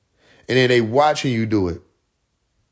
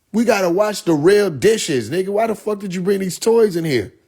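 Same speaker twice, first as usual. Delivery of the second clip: mock scolding; 6 semitones higher than usual. Scolding someone in the kitchen.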